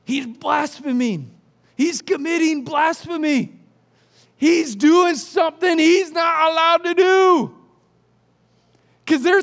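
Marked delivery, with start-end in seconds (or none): 0.0-7.5 scribes muttering to themselves, swelling into outrage; indignant scribes. Retold or imitated. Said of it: "some of the scribes said to themselves".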